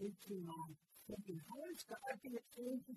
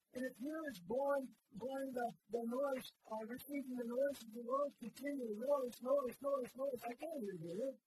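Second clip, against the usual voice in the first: building preacher's shout; 5 semitones higher, 7 dB louder than usual. Acted. Preacher rails against worldly noise.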